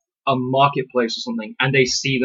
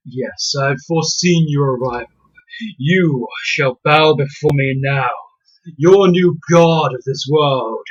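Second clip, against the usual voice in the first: dark lord; slower than usual. Pretend. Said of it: "They don't have to be".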